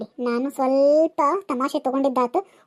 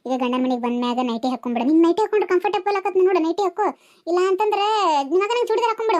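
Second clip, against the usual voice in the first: soothing aunty; 3 semitones lower than usual. Acted. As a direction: play the kindly elder settling a fight. Aunty gives advice. (ಕಡಿಮೆ ಧ್ವನಿಯಲ್ಲಿ ಸಮಾಧಾನಿಸುವ aunty)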